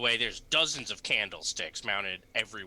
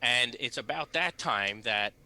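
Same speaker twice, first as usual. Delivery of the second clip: normal talking voice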